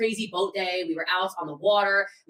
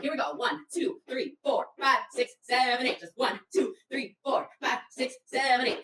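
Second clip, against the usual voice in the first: higher, rhythmic step count; coaching count; 4 semitones higher than usual. Retold or imitated. Organizer coaching struggling walker, counting rhythmically. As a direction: count out the steps like a trainer. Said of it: "start trying to coach her".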